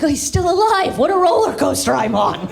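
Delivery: mock surprise. Son hearing his dad is still dying, mock surprise. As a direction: fake shock, dripping sarcasm. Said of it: "I was like".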